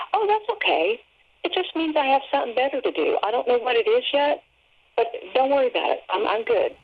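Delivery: high, airy and carefree, then fast; breezy reassurance. Retold or imitated. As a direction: brush off the bad news lightly, like it's nothing. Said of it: "exactly what I said in my tone of voice".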